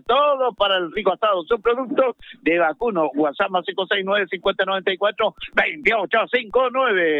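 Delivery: radio sponsor read; sports-radio advert delivery; live ad read. Acted.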